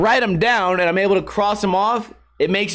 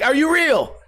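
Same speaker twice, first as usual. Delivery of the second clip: higher-pitched imitated bewildered question; mock disbelief; 7 semitones higher than usual. Dreamer checking his dog is real, mock bewilderment. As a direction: pitch it up, as if unsure.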